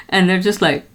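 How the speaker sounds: ordinary talk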